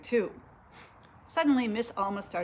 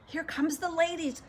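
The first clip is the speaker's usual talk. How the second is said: higher-pitched announcing call; 7 semitones higher than usual. A narrator's reading. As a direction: call it out to the lady of the house. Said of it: "she called to Missus Rogers".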